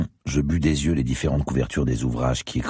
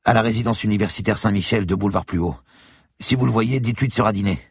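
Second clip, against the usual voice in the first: put-on higher, young student's voice; 8 semitones higher than usual. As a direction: voice the eager student. Student character voice. (voix d'étudiant plus aiguë)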